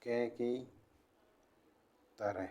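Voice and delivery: quiet, word-by-word dictation with long pauses; slow dictation. Acted. Teacher dictating notes to students, slow and quiet. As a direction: dictate each word slowly so the class can write.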